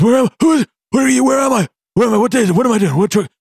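high, frantic, half-awake panic; jolted from sleep, no idea where; dazed and confused. Retold or imitated. Trucker jolted awake, disoriented.

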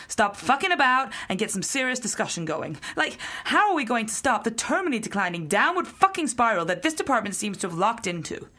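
forceful, exasperated dressing-down; harsh telling-off. Acted. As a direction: lay into the team, hitting the swear words. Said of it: "a little on the harsh side".

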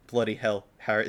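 attempted British accent, mildly done; a touch of British accent; incredibly British accent. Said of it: "in that incredibly British accent".

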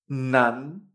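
"Nan" with pitch rising to the end; second tone. Shown as a demonstration. Teacher demonstrates N A N, "Nan" in rising second tone. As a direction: let "Nan" climb as one drawn-out syllable. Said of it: "en segundo tono".

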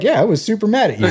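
half-joking confession; playful admission. Retold or imitated. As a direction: own it with a grin. Telling dad she was mad.

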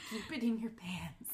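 whispering; mock scold in a whisper. Real, not acted.

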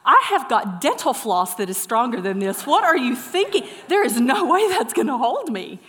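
loud, emphatic disbelief; incredulous protest. Retold or imitated. Zip liner balking at flimsy gear, incredulous protest. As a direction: object loudly, punching the words.

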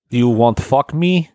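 slow, hammed-up Russian accent; mock Russian woman. Joking about Russian women, in a slow mock accent. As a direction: drawl it like a cartoon Russian seductress. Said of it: "hard to do a female Russian accent".

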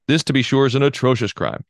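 mock-solemn sarcasm, lightly pressed; a touch of sarcastic indignation. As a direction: read the accusation with dry irony. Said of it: "hear the sarcasm, please".

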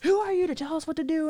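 high, loud sassy challenge; mock the girlfriends talking back; defiant. Girlfriends challenging the narrator, high and sassy. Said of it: "They're like".

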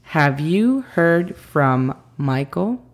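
slow model phrase. Shown as a demonstration. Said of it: "La pronunciación fonética de esta frase".

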